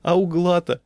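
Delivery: high, loud, amused; gasping with mirth. A narrator's reading. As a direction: exclaim in mock-breathless mirth. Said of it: "задыхался он". (весело, будто задыхаясь)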